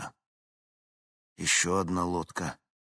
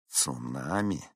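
lower, softer doubting echo; skeptical; 5 semitones lower, 6 dB quieter, slower than usual. A narrator's reading. Dispatcher repeats the pilot's word, skeptical. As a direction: repeat it as if you don't believe it. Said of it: "скептически повторил диспетчер".

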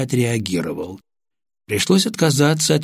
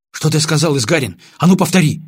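stern demand; 6 semitones higher, 5 dB louder than usual. A narrator's reading. Officer demands sergeant repeat it.

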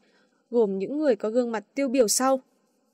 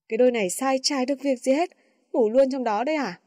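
scolding; faster than usual. Acted. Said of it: "thay mặt cả lớp mắng".

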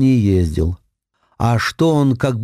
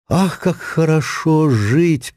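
slow joyful sigh; 4 semitones higher, slower than usual. A narrator's reading. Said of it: "подумал Цвет глубоко".

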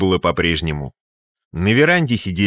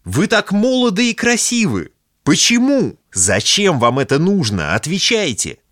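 desperate pleading; 11 semitones higher than usual. Acted. Pleading with a would-be suicide.

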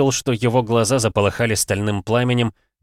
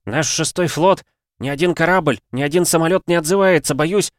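1 встревоженный секретарь; 8 semitones higher, 4 dB louder than usual. A narrator's reading. Секретарь врывается с дурной вестью.

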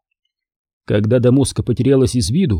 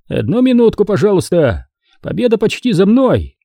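distracted giant warrior; 7 semitones higher than usual. Andrey busy picking nose.

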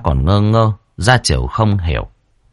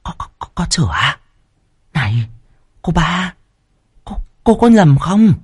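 fast, stuttering and higher; stammering; 8 semitones higher than usual. Acted. First wife stammering in shock at the news. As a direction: trip over the words in shock. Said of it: "giọng lắp bắp".

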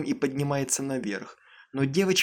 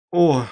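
horrified cry; 7 dB louder than usual. A narrator's reading. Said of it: "Хриплый крик ужаса".

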